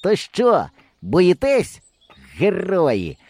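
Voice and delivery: put-on high, loud teasing kid; a boy daring his friends. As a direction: taunt them like a cocky boy. Boy's voice in story.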